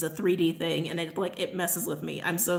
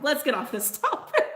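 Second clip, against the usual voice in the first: laughing; 6 semitones higher than usual. Real, not acted. Laughing while changing subject.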